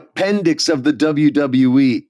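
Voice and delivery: emphatic mock wrestling promo; Kevin Owens promo put-down. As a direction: retell it as a punchy heel insult. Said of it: "he called him an appendix".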